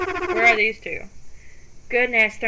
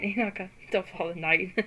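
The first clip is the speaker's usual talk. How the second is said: giggling; 5 semitones lower, 11 dB quieter than usual. Acted. Joking at passed-out friend.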